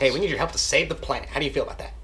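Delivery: hurried, fast-talking recruiter pitch. Acted. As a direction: rattle off the plea quickly. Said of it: "that's why I'm talking so fast".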